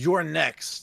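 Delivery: gruff, loud shout. Shouting a threat at a cultist in character: gruff voice. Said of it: "I'm adding such gruff to my voice".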